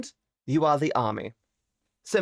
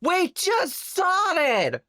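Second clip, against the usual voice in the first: squeaky high, drawn-out protest; mock outrage; 13 semitones higher, much slower than usual. Streamer squeaks at chat for starting early. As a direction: whine it in a cartoonish high voice.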